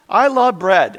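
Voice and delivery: I love bread, loud and high with LOVE punched; excited declaration. Real, not acted. Pastor confessing to his congregation, loud and excited. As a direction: proclaim it like a passion.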